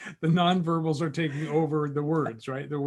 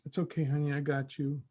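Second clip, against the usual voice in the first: soft voice; 5 dB quieter than usual. Shown as a demonstration. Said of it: "the soft voice".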